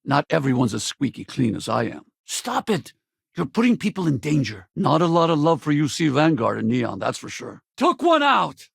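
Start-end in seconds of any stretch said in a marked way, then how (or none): 2.2-4.7 urgent order. Acted. Orders someone to stop. 7.8-8.7 loud, high battle cry; combat kill call. Acted.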